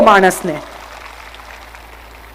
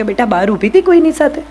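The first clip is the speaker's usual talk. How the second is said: gentle, softer question to a daughter; affectionate asking; 4 dB quieter than usual. Shown as a demonstration. Mother gently asking daughter who she stood with. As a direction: ask it lovingly, without accusing. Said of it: "સ્નેહથી પૂછો".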